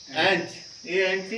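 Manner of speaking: एंट with a short flat e vowel, slow; ant said short. Shown as a demonstration. Teacher to students showing the word ant, short flat e. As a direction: spell out एंट then say it crisply. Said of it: "इसमें फर्क है बोलना".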